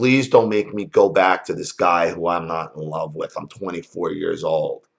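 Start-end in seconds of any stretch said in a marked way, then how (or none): none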